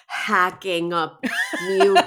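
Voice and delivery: croaky sick voice; hoarse from a cold. Real, not acted. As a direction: speak through a heavy chest cold. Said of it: "Sorry, I sound terrible".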